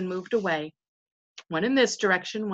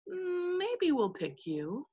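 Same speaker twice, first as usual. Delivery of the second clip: higher, soft and very slow, loftily choosing; haughty condescension; 8 semitones higher, 6 dB quieter, much slower than usual. Pretend. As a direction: drawl it like a king doing a favour. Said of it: "they're saying".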